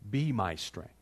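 humble prayer. Retold or imitated. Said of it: "What we need to begin to pray is".

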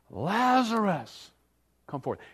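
called out. Acted. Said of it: "Jesus yells out".

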